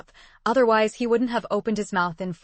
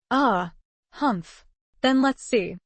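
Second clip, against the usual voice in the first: put-on slurred drunken bluster; 4 semitones higher, slower than usual. A narrator's reading. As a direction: speak like a tipsy old pirate. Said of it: "hiccuping while shouting drunkenly".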